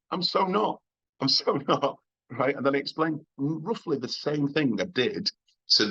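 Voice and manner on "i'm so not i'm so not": squeaky high, playful protest; mock-offended high squeal; high indignant denial. Pitched way up, protesting to the drunk wife.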